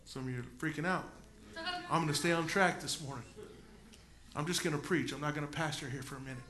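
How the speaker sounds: dropped low and soft, quick; muttering an aside to the congregation; quiet aside. Real, not acted. Preacher to congregation, an aside under his breath.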